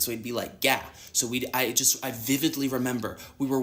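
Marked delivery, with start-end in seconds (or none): 0.6-0.8 GAH with a southern long open vowel; southern accent. Retold or imitated. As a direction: imitate a southern dad saying "Gah". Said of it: "he would say it with his southern accent".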